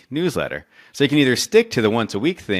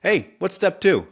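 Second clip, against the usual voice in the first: higher, slow puzzled gnome asking a buddy; confused gnome; 11 semitones higher, 3 dB louder than usual. Retold or imitated. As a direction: ask it up high, slowly, stumped. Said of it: "turns to one of his buddy gnomes and goes".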